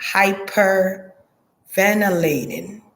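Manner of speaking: "Hyperventilating" drawn out slowly, each syllable spelled out; slow, careful repeat. Shown as a demonstration. Medium names the word she hears, slowly and deliberately. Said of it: "what they call this word I'm hearing".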